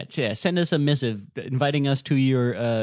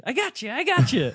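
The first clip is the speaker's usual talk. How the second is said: confident Dracula; 11 semitones higher than usual. Retold or imitated. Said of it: "He's like".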